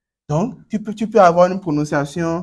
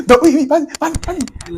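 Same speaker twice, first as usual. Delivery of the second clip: laughing; 11 semitones higher, 5 dB louder than usual. Real, not acted. Laughing while urging student.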